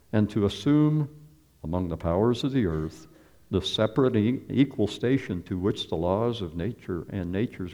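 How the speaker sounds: measured, ceremonial reading of a founding document; formal reading. Acted. Preacher reads the Declaration to his congregation, solemnly. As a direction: declaim it like a proclamation.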